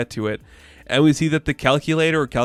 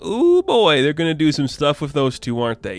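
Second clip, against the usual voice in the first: gleeful ooh; 3 semitones higher than usual. Retold or imitated. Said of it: "you're like".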